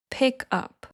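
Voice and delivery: "pick up" joined smoothly, weight on "up"; linked, stress at end. Shown as a demonstration. Teacher demonstrating linked pick up. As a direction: pick up as one word, stress on "up". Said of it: "it could sound like this".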